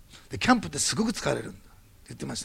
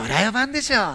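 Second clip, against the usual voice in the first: higher and louder, ものすごい sure of himself; blurted answer; 7 semitones higher, 7 dB louder than usual. Retold or imitated. Shinjo blurting his answer to the manager, loud and high. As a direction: blurt it out before you can stop. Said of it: "思わず言ったんですよ".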